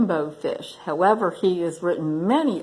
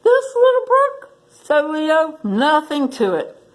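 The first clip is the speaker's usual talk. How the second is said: booming lion voice; 8 semitones higher than usual. Acted. Lion scoffs at the brook.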